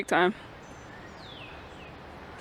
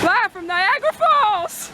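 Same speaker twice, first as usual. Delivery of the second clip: announcer voice; 10 semitones higher, 3 dB louder, slower than usual. Pretend. Announcer opening to camera.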